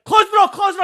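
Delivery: high, loud mock shout; imitated guard shouting. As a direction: bark it as the guard in the smoke. Security guard shouting at him.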